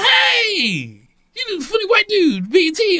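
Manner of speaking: high-pitched excited greeting, retold; excited recognition. Jail clerk recognizing a TV comic, excited. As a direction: imitate a woman thrilled to spot a comic.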